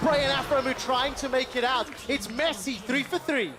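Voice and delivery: barely put-on American accent; half-hearted American play-by-play; terrible American accent. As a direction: call the fight in a badly faked American accent. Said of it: "next fight you do an American accent".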